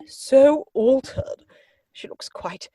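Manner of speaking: hushed, confiding whisper; gossipy whisper. Acted. Aunt whispering gossip about the widow to Algernon. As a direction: lean in and whisper the scandal.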